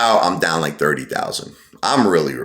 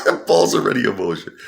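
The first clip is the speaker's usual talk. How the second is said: laughing echo. Real, not acted. Mocking the pit boss's excuse.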